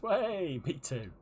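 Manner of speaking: high little cheer then flat; squeaky game grunt mimic; mock NPC cheer; imitating game character. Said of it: "You love how the game goes".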